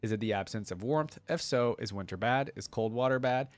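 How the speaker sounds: lightly voiced thoughtful scholar, calm critique; Diana's note read. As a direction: read it like a patient, clever friend giving feedback.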